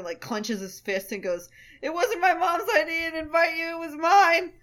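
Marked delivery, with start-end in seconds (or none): 1.8-4.5 high, loud, building acted outburst; full-volume outburst. Man clenches his fist and confesses to her, full-volume yell. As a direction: start raised and climb to a yell. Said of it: "Like, at full volume".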